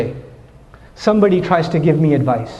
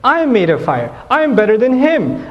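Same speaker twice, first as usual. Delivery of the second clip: mock boast, rising in pitch to the last claim; slow, self-important retort; retold arrogance; 4 semitones higher, slower than usual. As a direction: play Iblis looking down on a rival. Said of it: "He actually showed arrogance to Adam".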